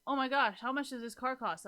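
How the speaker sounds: mildly hammed-up outburst; imitated yelling grandma. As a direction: act out an appalled grandmother yelling, at half force. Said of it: "I got yelled at by my grandma".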